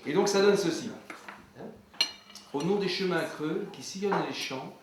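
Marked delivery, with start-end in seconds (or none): 2.5-4.7 measured opening of a recited poem; poem recitation. Acted. Farmer begins reciting his own poem, measured recitation. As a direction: recite it as verse.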